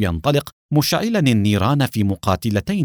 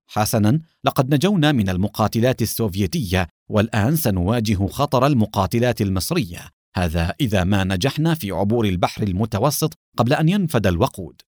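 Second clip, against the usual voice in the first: calm; 2 semitones lower than usual. Acted. Adham calmly warning of the Egyptian fighters, mildly calm. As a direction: state the next danger coolly. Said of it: "قال أدهم بهدوء".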